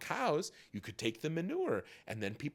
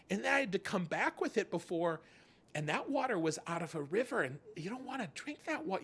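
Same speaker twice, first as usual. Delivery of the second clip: put-on griping kid; 6 semitones higher than usual. Kid complaining about carrying water.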